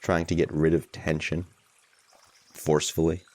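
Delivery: unhurried guidance with long pauses; guided meditation. Real, not acted. Teacher guiding a group to allow tension, unhurried guided meditation. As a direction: ease listeners into it, leaving space between phrases.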